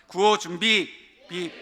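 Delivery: calling out. Real, not acted. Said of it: "구호 준비하면 빛 함께 외쳐주세요".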